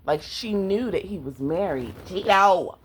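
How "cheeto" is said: calling out. Real, not acted. Calls out to pet mid-review.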